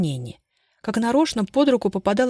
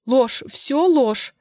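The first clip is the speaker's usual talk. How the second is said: loud, high trembling denial; shaking outburst; 6 semitones higher, 4 dB louder, much slower than usual. Acted. Bazhova suddenly flaring up at the photo, shaking denial. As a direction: explode in denial. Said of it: "вдруг вскинулась Бажова и затряслась".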